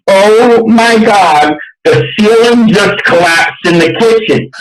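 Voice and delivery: drawn-out mock cry of alarm, no real volume; mock yell. Club owner luring men to the show, mock yell. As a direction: stretch out a staged yell of disaster. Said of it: "and yell".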